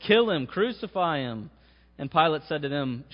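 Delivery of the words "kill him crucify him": crowd yelling. Retold or imitated. Crowd demands crucifixion.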